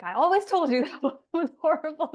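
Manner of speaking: imitating mom. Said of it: "she was like".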